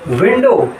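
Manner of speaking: विंडो with lips rounded on the opening W. Shown as a demonstration. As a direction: round the mouth to begin विंडो. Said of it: "मुंह का pronunciation गोल होना है".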